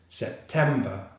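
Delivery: "September" as one joined word, stress on TEM; syllables joined. Shown as a demonstration. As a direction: say "September" whole, ending in a schwa. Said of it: "all three syllables together".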